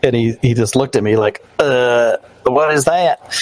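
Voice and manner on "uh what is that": puzzled rising what is that; baffled cashier. Retold or imitated. Retelling the clerk's baffled question, mildly mock puzzled. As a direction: play the clerk confused by a phone payment.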